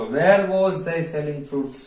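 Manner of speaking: very slow, word-by-word English dictation. Shown as a demonstration. Teacher dictating a question to Gujarati students, very slow and spaced. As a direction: spell it out for students to write.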